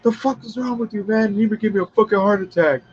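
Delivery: high-pitched imitation of indignant shock; mock startled complaint, pitched well up; shocked protest. Acts Fun Boy protesting in shock.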